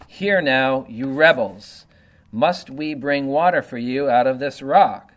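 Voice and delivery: loud, hollered reproach to the rebels; hollering rebuke. Acted. Moses, fed up, hollering at the rebellious people, loud. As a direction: bellow it at the crowd in exasperation. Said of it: "hollered at the people".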